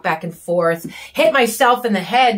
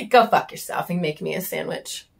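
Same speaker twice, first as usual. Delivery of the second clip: mock sneering husband; 4 semitones lower, 5 dB quieter than usual. Mocking husband voice.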